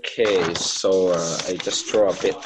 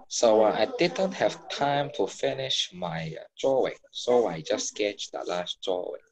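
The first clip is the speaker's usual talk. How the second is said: Cantonese accent. Real, not acted. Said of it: "talking my Cantonese accent".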